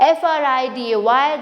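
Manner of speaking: slow letter by letter spelling; spelled out slowly. Shown as a demonstration. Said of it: "simple to say".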